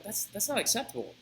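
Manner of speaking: drawn-out sneering taunt, rising high and loud; mocking guards. Guards taunting the women at the gates, drawn-out sneer. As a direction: taunt them slowly, stretching out each word.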